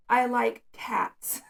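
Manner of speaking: "I like cats" said slowly and clearly, each word held; slow, clear model sentence for a child; slow demo sentence. Shown as a demonstration. Parent modelling a sentence for the child, slow and clear. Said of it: "So let's say the sentence is".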